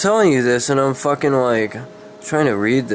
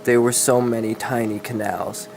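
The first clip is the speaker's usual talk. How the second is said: steady dramatic storybook reading; story narration. A narrator's reading. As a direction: read the dark fantasy tale aloud, evenly. Reads a dark fantasy story.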